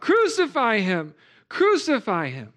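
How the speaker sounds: hammed-up angry crowd cry; crowd shouting. Multitudes demanding crucifixion, a mock mob shout. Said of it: "the multitudes are crying out".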